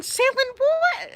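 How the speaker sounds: high, drawn-out disbelief with laughter; dad's baffled outburst, acted out laughing; incredulous. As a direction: stretch the question in mock outrage. Dad retold, incredulous.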